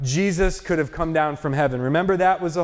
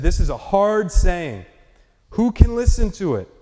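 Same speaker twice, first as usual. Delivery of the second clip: grumbling disciples' complaint; 4 dB louder than usual. Retold or imitated. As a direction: let the complaint rise on "listen". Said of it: "they said".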